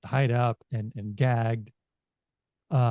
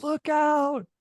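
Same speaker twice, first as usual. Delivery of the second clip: high, drawn-out warning cry; mock yell; 14 semitones higher than usual. Game master voicing a freed hostage's warning, high yell. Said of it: "uh, they yell".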